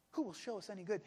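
subdued, resigned question; understated despair. Retold or imitated. Preacher echoing the doubting companions, understated despair. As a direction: let the question sink, quietly hopeless. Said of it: "This is the voice of despair".

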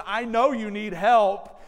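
slow, loud mock-grumpy ogre; mild hint of a mean ogre, said slowly and loudly. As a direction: grumble it like a begrudging monster. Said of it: "like a mean ogre going".

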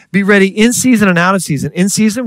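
preaching emphasis. Real, not acted. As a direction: call it out to the congregation.

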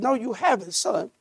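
soft, hushed fatherly correction; gentle father. Acted. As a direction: quietly set him straight.

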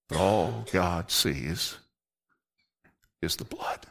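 slow, then sinking into a hushed whisper; fading to a whisper. Acted. Preacher telling the congregation its key truth, hushed whisper. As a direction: let it drop to a breath on the blood. Sermon climax, dropping to whisper.

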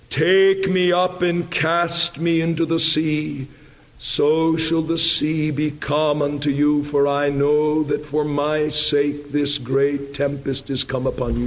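calm, measured surrender; slow, even-voiced quotation; Jonah. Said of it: "Jonah very calmly says".

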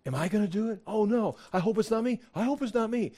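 fretting that it might be me; worried disciple. Retold or imitated. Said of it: "you're looking around".

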